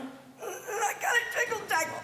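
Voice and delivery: high, strained comic voice; mock jiggle jaggler. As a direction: squeal it like someone who can't keep still. Acts out a fidgety jiggle jaggler.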